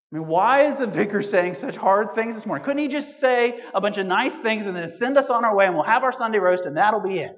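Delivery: loud, high mock-indignant complaint; indignant outburst. Preacher voicing congregation's grumble, loud and high. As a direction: belt it out like a put-upon churchgoer.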